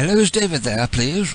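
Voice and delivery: switching into a put-on British accent. Phoning to ask for David, the caller switches to a British voice. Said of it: "switch to my British voice now".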